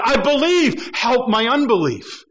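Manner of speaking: a hint of an earnest cry; fervent cry. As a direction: cry it out with conviction. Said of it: "The man now cries out".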